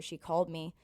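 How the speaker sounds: burp mid-sentence. Real, not acted. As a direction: talk through a burp. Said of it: "I keep burping".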